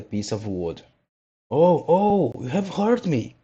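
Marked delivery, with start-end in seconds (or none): 1.5-3.4 high, pained little wooden voice; doleful little voice. A narrator's reading. Log crying out to the carpenter, high and pained. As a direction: cry out small and hurt. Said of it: "cried the same little voice dolefully".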